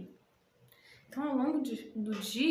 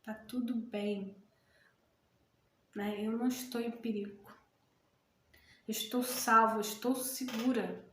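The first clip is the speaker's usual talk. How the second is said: calm self-reassurance. Shown as a demonstration. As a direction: gently tell yourself you are safe. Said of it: "Respira mais uma vez". (fala suave e tranquilizadora)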